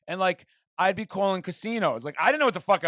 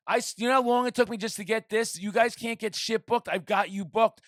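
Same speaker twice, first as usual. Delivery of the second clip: indignant, raised-pitch rant; retold temper blowout; 4 semitones higher than usual. Manager retelling scolding band he booked, indignant. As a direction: scold them as in a retold row. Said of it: "my temper had a fucking massive blowout".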